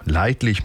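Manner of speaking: leidlich with the weight on "leid"; stress on LEID. Shown as a demonstration. Presenter quips on the news quote, stressing "leid" in "leidlich". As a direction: lean on the first syllable of "leidlich". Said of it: "mit Betonung auf leid".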